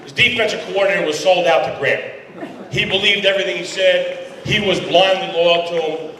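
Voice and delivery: still laughing. Real, not acted. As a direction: let the laugh from the joke spill over. Still laughing after the joke.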